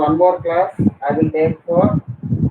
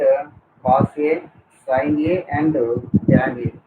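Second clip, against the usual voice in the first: dictating. Shown as a demonstration. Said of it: "so just I'll dictate the question".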